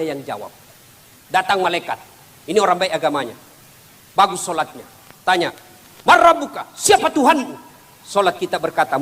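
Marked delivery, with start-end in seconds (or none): 6.1-7.6 high, loud, stern grave angel interrogating; questioning angel. Acted. (suara malaikat kubur yang tinggi dan keras)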